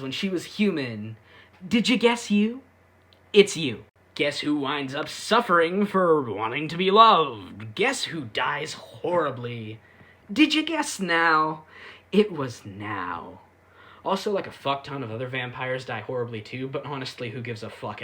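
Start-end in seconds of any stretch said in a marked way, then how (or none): 1.7-13.4 mock game show. Real, not acted. Mock quiz about who suffers.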